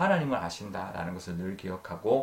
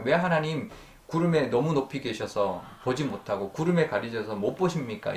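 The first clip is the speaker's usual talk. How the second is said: imitated complaint, raised pitch easing down; mild retold lament; 4 semitones higher than usual. Preacher voicing Job's complaint to a hidden God, mildly lamenting. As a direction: lightly act out a plea to God. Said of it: "이렇게 막 한탄하고 있는 거죠".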